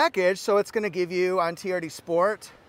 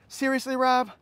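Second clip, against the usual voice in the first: mock ad line; 5 semitones higher than usual. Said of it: "from their commercial".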